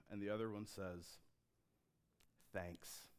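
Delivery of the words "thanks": lower, softer, deadpan Thanks; flat quiet thanks. Acted. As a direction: drop it with no feeling at all. Worst reply, flat and quiet.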